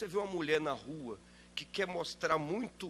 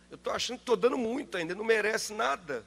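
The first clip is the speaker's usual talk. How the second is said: stingy driver's inner voice; 5 semitones higher, 4 dB louder, faster than usual. Retold or imitated.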